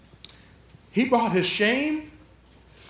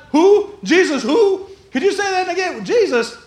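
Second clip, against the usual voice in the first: tag; 7 semitones higher, 5 dB louder than usual. Acted. Peter feigning ignorance of Jesus.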